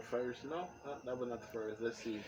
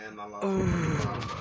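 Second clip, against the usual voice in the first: anguished cry; 10 semitones higher, 13 dB louder than usual. Real, not acted. Grief outburst.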